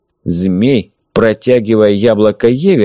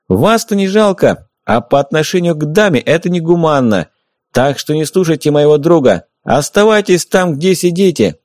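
higher, loud mocking announcement; deliberately loud; 7 semitones higher than usual. A narrator's reading. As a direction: shout so the enemies outside hear every word. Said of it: "Он нарочно говорил громко".

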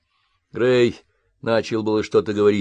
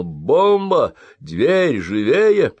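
higher, louder urgent shout; 5 semitones higher, 5 dB louder, much slower than usual. A narrator's reading. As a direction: yell a warning to hurry. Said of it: "Ковальский крикнул".

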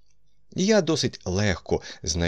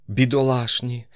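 higher, sympathetic lament; a compassionate exclamation; sympathetic sigh; 5 semitones higher, 4 dB louder than usual. A narrator's reading. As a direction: pity them, pitched up. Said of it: "співчутливо зітхнувши".

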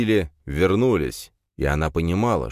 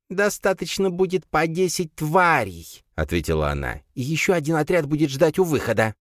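creature mother; 10 semitones higher than usual. A narrator's reading. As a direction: give the order calmly. Mother gives orders.

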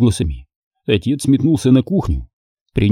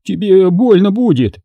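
higher tearful plea; near tears; 9 semitones higher than usual. Acted. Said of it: "чуть не плакал толстяк".

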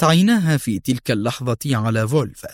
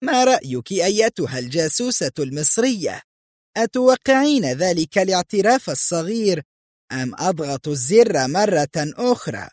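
higher-pitched, lilting taunt; gloating; 6 semitones higher than usual. A narrator's reading. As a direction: taunt the captive with gloating questions. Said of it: "وهي تقول في شماتة". (بشماتة وصوت أعلى نبرة)

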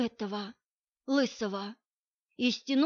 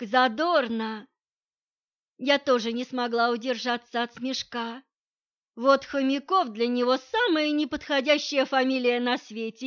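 normal talking voice

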